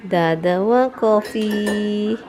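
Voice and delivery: slow, drawn-out pet talk. Real, not acted. Owner asking about dada's coffee for the dog, baby talk. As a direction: stretch it out as if cooing to a dog.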